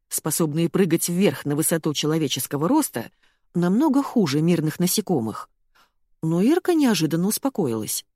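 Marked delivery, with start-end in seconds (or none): none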